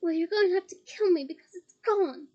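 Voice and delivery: loud defiant roar. Acted. Harry defying Bellatrix with a loud roar. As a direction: throw it back at her full voice. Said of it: "Harry roared".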